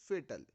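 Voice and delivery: "fatal" as FAY-tal, not fat-al; long ay in "fatal"; correct pronunciation. Shown as a demonstration. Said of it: "फैटल नहीं है". ("fatal" को फेटल बोलो, फैटल नहीं)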